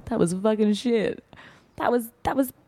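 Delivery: high, indignant Essex complainer; Essex accent. Acted. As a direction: imitate an outraged Essex listener. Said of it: "some person who's from Essex".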